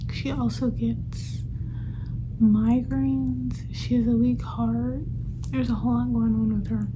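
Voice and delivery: talking around a retainer; slightly lisped retainer speech. Real, not acted. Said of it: "if it sounds like I'm talking weird. I have my retainer in".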